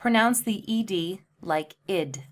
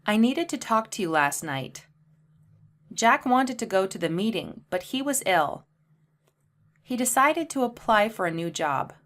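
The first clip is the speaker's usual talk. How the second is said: more natural pace; 2 semitones higher than usual. Shown as a demonstration. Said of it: "say them more naturally at a faster pace".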